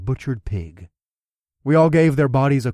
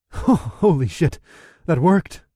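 excited; 4 semitones higher, 3 dB louder, slower than usual. Acted. Surprised delight at kill.

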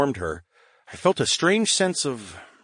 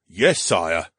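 lower, reluctant mild grumble; wary grumble; 4 semitones lower than usual. Acted. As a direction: agree with a touch of wariness. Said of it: "Ascara grumbled warily".

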